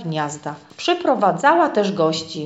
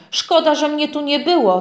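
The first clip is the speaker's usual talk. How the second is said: higher-pitched indignant outburst; irritated wind; 8 semitones higher than usual. A narrator's reading. The wind telling the little house it is angry, indignant. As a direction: bristle with annoyance at the shouters. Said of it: "denerwował się wiatr".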